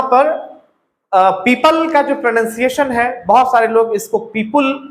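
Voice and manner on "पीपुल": पीपुल with an "ul" ending; wrong पीपुल, rounded u before the l; mispronounced PEOPLE. Shown as a demonstration. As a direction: say पीपुल with a "pool"-like second syllable. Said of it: "उल कह के बोल देते हैं".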